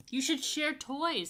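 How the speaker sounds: put-on high, slow and loud little boy; proud pupil with the answer; child's answer. David telling the teacher, high and proud. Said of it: "said David".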